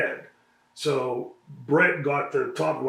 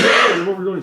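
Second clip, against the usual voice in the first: retold shout; 5 semitones higher, 11 dB louder than usual. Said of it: "and I said".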